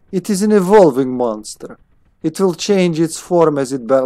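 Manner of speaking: put-on unintended Slavic accent. Player voicing scientist on evolving monster, Slavic accent. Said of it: "she's not fucking Slavic".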